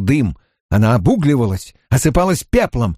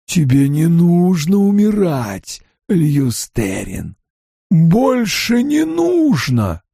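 soft and coaxing; 3 semitones higher, slower than usual. Acted. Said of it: "Голос Баалзамана стал тихим, вкрадчивым".

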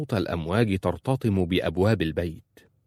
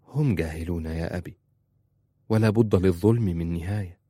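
gentle. Acted. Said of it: "في رفق".

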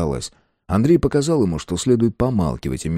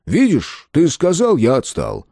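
soft; 5 semitones higher than usual. A narrator's reading. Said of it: "и мягко сказал".

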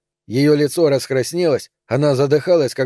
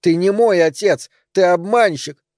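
higher-pitched accusing cry; angry cry; 5 semitones higher, slower than usual. A narrator's reading. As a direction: throw the accusation, voice raised in pitch. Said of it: "закричала она".

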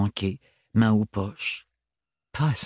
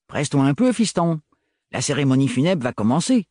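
put-on gruff old Renard, higher; 3 semitones higher than usual. Narrator voices Renard.

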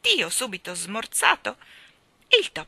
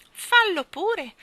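slow, high, loud cat voice; 12 semitones higher, 8 dB louder, much slower than usual. A narrator's reading. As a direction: draw it out like a mewing cat. Cat speaks in cat voice. (voce di gatto, lenta e acuta)

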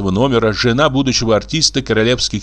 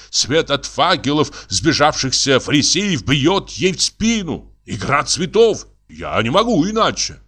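lightly voiced artist, a bit higher; touch of agitated artist; insistent painter; 5 semitones higher than usual. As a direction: insist with mild exasperation. Painter insists on his artistic need.

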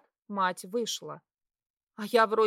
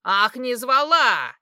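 slow, loud sneering throw-back; mocking angry shout; 3 semitones higher, 10 dB louder, slower than usual. Mother mocking her daughter with a loud sneer. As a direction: hurl her words back with scorn.

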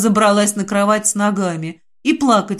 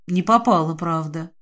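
ordinary delivery, nothing marked

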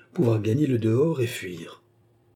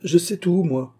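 high, louder confident announcement; self-possessed; 8 semitones higher, 4 dB louder than usual. A narrator's reading. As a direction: declare it boldly, undaunted. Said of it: "avec ce sang-froid".

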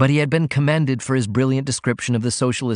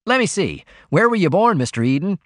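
high, keen interviewer's question; expectant attention; 8 semitones higher, 3 dB louder than usual. A narrator's reading. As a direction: put on an attentive air, pitched well up. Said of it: "assuming an air of expectant attention".

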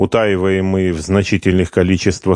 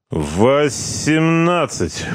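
dull; 8 semitones higher, much slower than usual. A narrator's reading. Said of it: "произнёс тупо".

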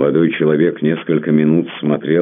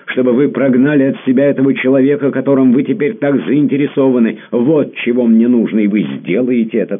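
high, loud jealous pleading; jealous demand; 10 semitones higher, 7 dB louder than usual. Acted. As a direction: push hard, insist on every word. Jealous lover demands loudly.

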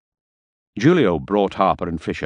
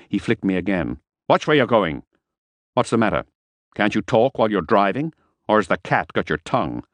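menacing Harper; 3 semitones higher than usual. Acted. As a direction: threaten the driver, lightly voiced. Harper bullying the driver.

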